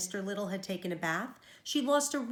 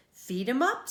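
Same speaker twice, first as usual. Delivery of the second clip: cheerful; 3 semitones higher, 5 dB louder than usual. Acted. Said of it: "said the doctor cheerfully".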